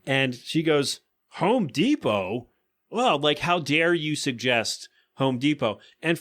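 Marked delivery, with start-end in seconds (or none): 1.4-5.8 slow, offended disbelief in a put-on customer voice; scornful scowl. Customer scorning the clerk's Home Depot tip, slow and offended. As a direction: drag it out like the suggestion is an insult. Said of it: "bunches up her face, like, "Ugh," scowls".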